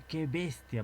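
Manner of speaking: exclaimed. Shown as a demonstration. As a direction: call it out at the speeding biker. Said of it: "al ver al motociclista".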